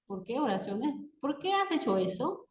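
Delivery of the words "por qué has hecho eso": higher, rising question on "Por qué has hecho eso". Shown as a demonstration. Teacher reading example direct question, questioning tone. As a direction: ask "Por qué" directly, lifting at the end. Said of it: "Cuando sea pregunta directa o indirecta".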